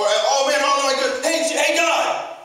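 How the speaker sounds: high, loud mock panic; panicked calling out. Acting out calamity coming around me, panicked calling out.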